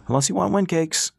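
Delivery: calling out. Acted. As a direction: call it over the railing. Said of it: "Ras called over the railing".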